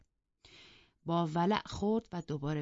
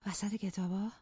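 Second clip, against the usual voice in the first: higher, incredulous distressed question; confused, distressed; 4 semitones higher than usual. A narrator's reading. Mistress bewildered at her maid's news, incredulous. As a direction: echo the words in bewildered disbelief. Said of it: "سردرگم و پریشان گفت".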